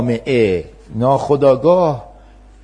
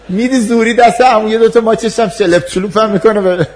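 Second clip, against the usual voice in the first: louder and higher, playful telling; animated retelling; 9 semitones higher, 8 dB louder than usual. Acted. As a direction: ham up the sloppy kiss. Mock-dramatic retelling of kiss. (روایت پرشور و بلند و بازیگوشانه)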